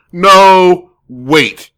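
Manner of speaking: long wail of protest; exasperated cry. Acted. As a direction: cry out in mock dismay. Mock dismay at mixing up models.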